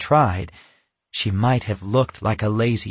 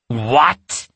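snarled; 2 semitones higher, 4 dB louder than usual. Acted. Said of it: "Natasha snarled".

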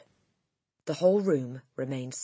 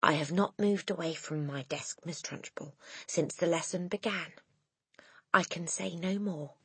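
total calmness; 3 semitones higher, 5 dB quieter than usual. Acted. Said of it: "said with total calmness".

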